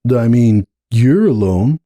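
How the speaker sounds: a hint of a frustrated young stallion pushing back; young colt Hoops. Hoops voiced in dialogue.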